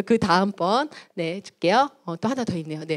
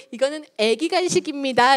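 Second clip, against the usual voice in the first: playful presentation; 4 semitones higher, 4 dB louder than usual. Acted. Playing shop with tiny snacks.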